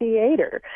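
THEATER as "thee-AY-ter"; long stressed AY in the middle of THEATER; mentioned variant. Retold or imitated. Word expert echoes the host's variant, THEATER as "thee-AY-ter". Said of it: "pronunciation that you're mentioning".

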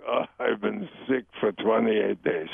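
put-on slow complaint in a light Jewish accent; suffering mother, hint of Jewish accent. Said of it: "a little bit of a Jewish accent".

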